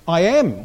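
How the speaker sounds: "am" lifted above "I"; stress on AM. Shown as a demonstration. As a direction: land firmly on the word "am". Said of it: "What does am mean?".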